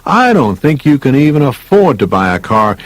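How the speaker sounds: mild mock yell at a time-waster; mock yelling salesman. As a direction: act out a salesman snapping at a customer. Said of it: "He starts yelling and screaming".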